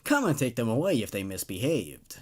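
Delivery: steady storyteller reading a spooky ad; story narration. A narrator's reading. Narrator reading a creepypasta to listeners, deadpan ad style. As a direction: read it like a creepy infomercial.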